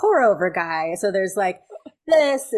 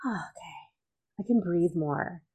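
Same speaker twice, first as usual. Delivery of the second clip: relieved sigh; 2 semitones lower, 5 dB quieter, slower than usual. Retold or imitated. Relief at empty counter.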